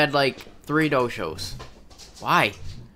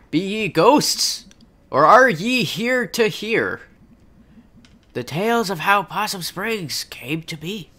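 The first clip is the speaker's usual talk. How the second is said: hammed-up play narrator. Actor greeting the audience in a town history play, lightly hammed. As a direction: draw out the opening like a pageant host.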